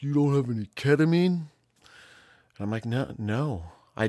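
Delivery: high, loud incredulous question; mock disbelief. White kid asking the host for ketamine, incredulous.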